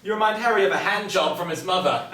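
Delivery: talking through laughter, loud; laughing. Real, not acted. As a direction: laugh the words out. The speaker laughing at Harry's story.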